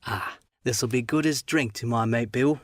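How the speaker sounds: lightly voiced menacing seaman; a hint of a sly old sailor; sly seafarer, lightly done; sly pirate. Black Dog's first words.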